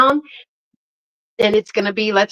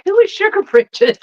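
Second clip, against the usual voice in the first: much higher, baffled voice for the friend; puzzled friend; 11 semitones higher than usual. Retold or imitated. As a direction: play her friend confused by the nickname. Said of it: "And she was like".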